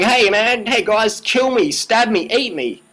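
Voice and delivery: mocking a story about a walrus offering itself to hunters, in a high goofy voice. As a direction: play the walrus as a silly eager volunteer.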